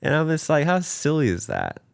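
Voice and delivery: giggling through the words at his own silliness; real laughter. Real, not acted. Laughing at his younger self.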